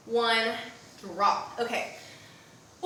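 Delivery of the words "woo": winded woo. Real, not acted. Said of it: "is tough cookies".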